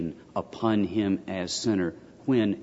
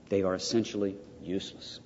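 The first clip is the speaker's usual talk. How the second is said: softer, weighted repeat on THEY; 5 dB quieter than usual. Real, not acted. Lecturer repeating to students that images are useless, softer. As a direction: repeat it quietly so it lands.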